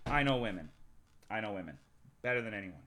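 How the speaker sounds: low, measured self-assured boast; mock smug confidence. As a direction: drop the voice and play the expert. Mock boast as expert on women.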